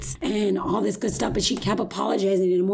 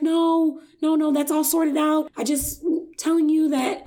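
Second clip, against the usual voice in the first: mock hasty reassurance; 7 semitones higher than usual. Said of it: "she was like".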